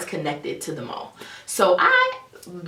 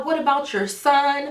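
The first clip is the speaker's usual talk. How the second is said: mock shout, pitched up; retold shout; 7 semitones higher than usual. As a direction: yell it at him like a scorned girlfriend. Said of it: "yelling, like".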